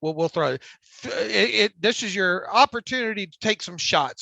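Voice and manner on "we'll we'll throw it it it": stuttering, repeating the first word; real stutter, words catching. Real, not acted. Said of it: "I stutter".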